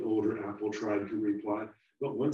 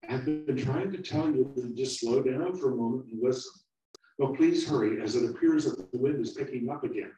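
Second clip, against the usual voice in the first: nervous; 5 semitones higher, 7 dB louder than usual. Acted. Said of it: "said nervously".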